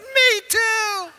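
very high, loud hammed-up cry; mock tearful wail. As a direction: wail it back in imitation tears. Husband wails back to crying wife.

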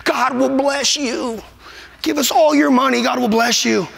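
mild mock of a money-begging preacher. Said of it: "these guys begging for money".

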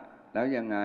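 slow, soft, unimpressed "so what"; dismissive retort. Retold or imitated. Politician retelling his cool reply to a pleading rival, slow and dismissive. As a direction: let it hang, drawn out and cool. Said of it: "ผมก็บอกว่า".

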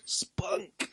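breathy whisper right into the ear; hushed, unvoiced whisper. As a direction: whisper it creepily, very soft. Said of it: "And then whispers".

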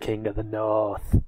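put-on slow go at a Westerosi accent; drawn-out imitation of a Westerosi accent. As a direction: try out the northern Westeros accent slowly. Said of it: "that was a northern Westerosi accent".

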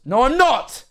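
loud, high squawked denial; sudden high-pitched shout of denial; indignant outburst. Real, not acted. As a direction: yelp it out in protest. Mock-protest at being teased.

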